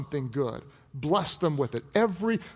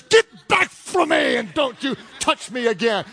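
mock angry wife; 4 semitones higher, 3 dB louder than usual. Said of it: "other days".

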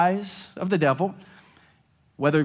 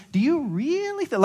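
high, slow, condescending; passive-aggressive question; 9 semitones higher than usual. Shown as a demonstration. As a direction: ask it so yes sounds stupid. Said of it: "passive-aggressive ask you this question".

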